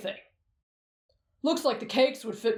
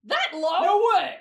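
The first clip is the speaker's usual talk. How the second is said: shocked outburst; 5 semitones higher, 3 dB louder than usual. Acted. Shocked at a low score.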